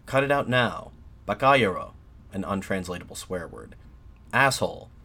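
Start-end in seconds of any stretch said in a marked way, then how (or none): 0.1-1.9 raised, louder heckle, lightly acted; read-aloud jeer from a crowd; mock crowd shout. A narrator's reading. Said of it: "There were shouts from the crowd". 4.3-4.9 louder, higher narrated insult; read-aloud jeer, moderately raised; mock crowd shout. A narrator's reading. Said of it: "There were shouts from the crowd".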